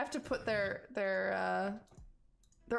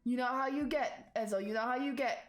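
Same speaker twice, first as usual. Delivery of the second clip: calming a friend; 3 semitones higher than usual. Acted. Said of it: "and it's like".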